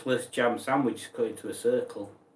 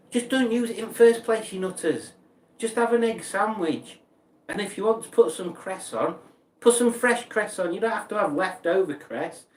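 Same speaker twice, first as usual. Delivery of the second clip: mock rant; 6 semitones higher than usual. Ranting at cress users.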